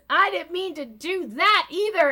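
high, fake-sorry voice; sing-song fake apology; mock innocence. Kathy swinging her bag, fake-sorry high voice. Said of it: "She goes".

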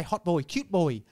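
a hint of Asian accent; imitated Asian accent. Shown as a demonstration. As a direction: draw it out in a light Asian accent. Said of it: "And I say".

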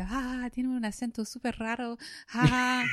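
put-on high, loud, giggly taunt of a little girl; mocking little girl. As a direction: tease like a six-year-old laughing at an accent. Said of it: "the little girl used to laugh at me and go".

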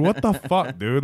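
mock indignant protest; retold disbelief. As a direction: act out being thrown by a friend's remark. Retold baffled reaction to coworker.

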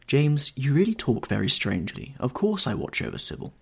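a touch of theatrical indignation; affronted stately mother. A narrator's reading. Mother defending herself to her stern son, lightly affronted and stately.

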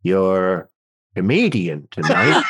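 low, slow, halting mock sob; mock sniffling introduction. Crying host introducing the comedian, mock tearful. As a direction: introduce the act as if in tears. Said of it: "they're crying and just sniffing".

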